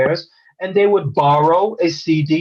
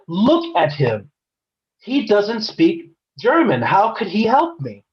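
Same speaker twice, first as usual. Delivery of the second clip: slow, pointed, higher-pitched indignation; retold dismissive customer; 5 semitones higher, slower than usual. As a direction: imitate an affronted customer, spacing out the words. Retold dismissive customer demanding another clerk.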